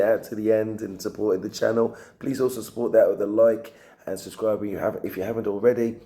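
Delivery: tired, croaky, fading voice; croaky voice worn out from talking. Real, not acted. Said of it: "Sorry for the croaky voice".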